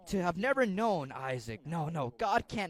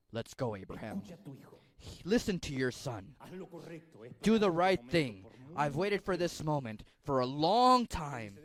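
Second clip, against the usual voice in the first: lower, steady divine voice; God speaking; 3 semitones lower than usual. Acted. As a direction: speak as God across heaven. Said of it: "that's when God speaks".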